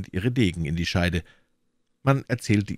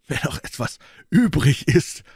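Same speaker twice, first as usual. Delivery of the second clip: mocking; 8 semitones higher, 5 dB louder than usual. A narrator's reading. Athos taunts from inside the cellar, mocking. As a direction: stretch the key word mockingly, pitched up. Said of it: "murmelte Athos mit höhnischer Stimme".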